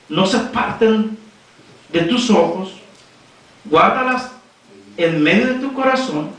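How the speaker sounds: measured phrases with deliberate pauses; scripture reading. Acted. Preacher reads Proverbs to the congregation, scripture reading.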